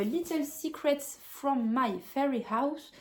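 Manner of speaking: slow, careful English accent on the book title. Shown as a demonstration. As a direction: show off her English accent, a bit proud. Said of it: "Super accent anglais".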